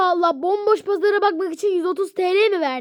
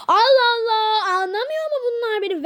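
mock crying; 4 semitones higher, faster than usual. Sahte ağlamaklı şikayet.

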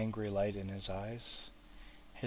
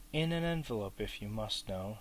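impatiently. Acted. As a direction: brush the question off, mildly annoyed. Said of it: "said Bilbo impatiently".

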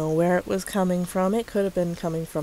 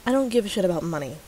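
reading own comment; much faster than usual. Retold or imitated. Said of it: "this is me, by the way".

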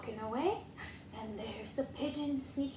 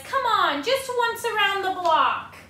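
pigeon coaxing; 6 semitones higher, 6 dB louder than usual. Acted.

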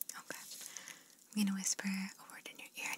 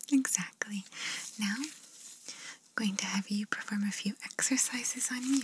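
ASMR whisper. Acted. ASMR artist whispering instructions to the listener. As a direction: breathe the words gently, no voice.

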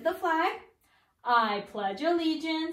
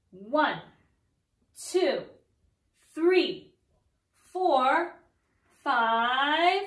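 counting voice; much slower than usual. Shown as a demonstration. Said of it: "pop in your counting voice".

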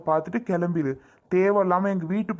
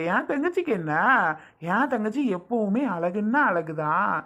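fond praise. Acted. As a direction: gush over her saree. Brother praising sister's saree.

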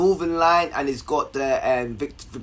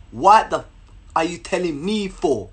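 indignant rebuff. Retold or imitated. Girl's rebuff repeated slowly.

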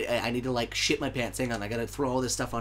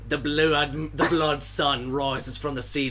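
louder, slow dramatic narration; 3 semitones higher, 3 dB louder, slower than usual. Acted. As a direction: declaim it like an epic opening. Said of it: "corrected dramatic retake".

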